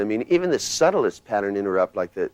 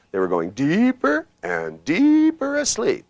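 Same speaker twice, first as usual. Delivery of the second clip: "deeper and deeper asleep" high, loud and slow, pitch climbing; voice going up; 9 semitones higher, 5 dB louder, slower than usual. Shown as a demonstration. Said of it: "voice goes up and you're saying deeper".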